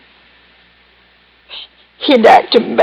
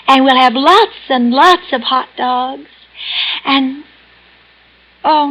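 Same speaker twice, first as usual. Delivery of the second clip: a hint of a little girl pleading sweetly; high childish coaxing, asking Daddy a favour; 4 semitones higher than usual. Patient reliving being Daddy's girl, lightly childlike.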